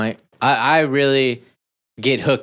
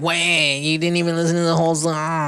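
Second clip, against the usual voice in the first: mock protest; 5 semitones higher than usual. Mimicking bandmate's protest about the song.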